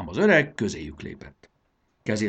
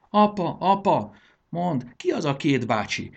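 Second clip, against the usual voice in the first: put-on high, piping child's voice; little kid calling, then asking; small child; 9 semitones higher, 5 dB louder than usual. A narrator's reading. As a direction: tug at dad with a curious question. Small child asks father about strangers.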